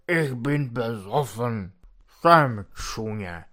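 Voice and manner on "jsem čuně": hopeless self-reproach. Acted. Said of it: "se zoufalou, upřímnou beznadějností".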